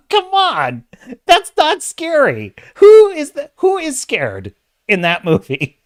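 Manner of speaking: very high, loud, laughing protest; laughing disbelief. Real, not acted. Streamer ridiculing a horror movie as not scary, laughing incredulously. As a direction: scoff through real laughter, pitch shooting up.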